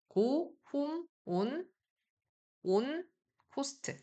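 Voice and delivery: 고 홈 온을 순수한 오로 흉내; 학생들 틀린 오 발음 흉내; imitating learners' o. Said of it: "이런 식으로 많이 한단 말이에요". (잘못된 한국식 오 흉내)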